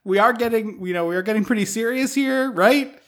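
high, coaxing pretend plea; pleading girlfriend. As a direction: sweet-talk him into going home. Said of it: "I'm like".

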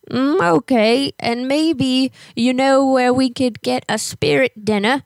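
lightly voiced old lady with a hint of English accent. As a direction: play a fussy old neighbor lady on a prank call. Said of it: "when I talk like an old lady".

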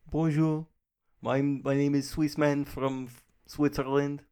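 put-on Swiss accent. Guest asked to try the country, mock Swiss accent. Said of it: "I am doing a Swiss accent".

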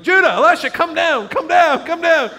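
high, loud calling-out; calling the kids. Retold or imitated. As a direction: holler urgently for the children to come. Father calling children out of bed.

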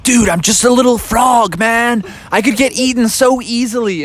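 a scared tiny frog pleading with his friend; nervous little frog. Acted. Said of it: "he's like".

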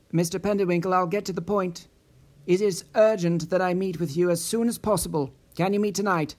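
brisk, businesslike woman caller; no-nonsense tone. Acted. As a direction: get straight to the point, no warmth. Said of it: "in a no-nonsense tone".

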